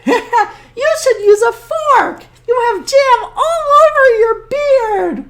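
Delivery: high voice through laughter; high laughing old woman; laughing granny. Acted. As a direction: scold fondly while laughing. Baba Brena laughing.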